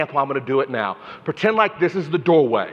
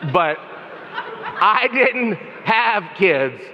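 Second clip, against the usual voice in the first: laughing lament; 5 semitones higher, much slower than usual. Real, not acted. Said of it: "self-pitying joke".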